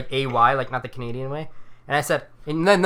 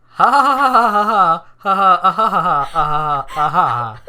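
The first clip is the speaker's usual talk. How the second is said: reading ha ha while truly laughing, slow and louder; laughing through it; 5 dB louder, slower than usual. Real, not acted. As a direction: let real laughter break the ha ha. Reading his long typed laugh.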